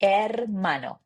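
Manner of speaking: hermano with no h, er-MA-no; silent h. Shown as a demonstration. Teacher modelling the silent h, Spanish pronunciation. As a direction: drop the h in hermano. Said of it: "you say".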